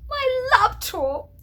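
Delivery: very high, slow, laughing delivery; joyful, tearful news. Retold or imitated. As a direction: savor the good news with laughter. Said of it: "And I'm like".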